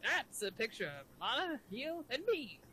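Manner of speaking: lightly voiced cartoon crab boss; cartoon sea-captain lilt; Mister Krabs. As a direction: play the chief as a cartoon crab. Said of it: "the Mister Krabs voice".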